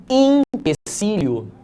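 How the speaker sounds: Empecilho said slowly with an i, ipesilho; spoken pronunciation. Shown as a demonstration. Teacher showing the class how Empecilho sounds in speech, slow. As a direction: draw out Empecilho as spoken, im-pe-ci-lho. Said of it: "a gente fala".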